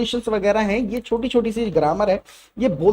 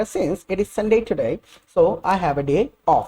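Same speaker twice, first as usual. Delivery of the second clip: very slow, careful English for repeating; slow, deliberate classroom reading; slow teacher model; much slower than usual. Shown as a demonstration. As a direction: spell it out slowly for learners to copy. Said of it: "देखते हैं क्या क्या use करा जाएगा".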